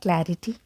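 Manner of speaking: clarity as CLA-ri-tee, full i; mispronunciation. Retold or imitated. Teacher imitates some people, mispronounced clarity. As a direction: say "clarity" as spelled. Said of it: "some of them pronounce it like".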